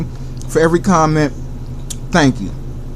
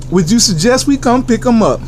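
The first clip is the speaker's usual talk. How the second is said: higher interviewer voice asking himself; high questioning voice; 7 semitones higher than usual. Pretend. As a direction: play the interviewer, pitched up.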